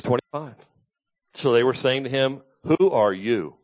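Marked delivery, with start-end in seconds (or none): 2.6-3.6 with attitude. Shown as a demonstration. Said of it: "I gotta say it with some attitude".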